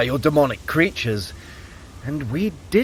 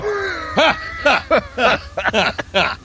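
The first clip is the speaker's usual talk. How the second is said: high, airy chuckle; amused laugh; 10 semitones higher than usual. Acted. Loki laughs at his own chains, high airy chuckle. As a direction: laugh it off with cheeky charm.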